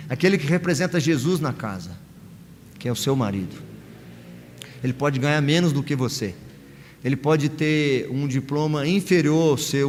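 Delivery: ordinary talk, nothing marked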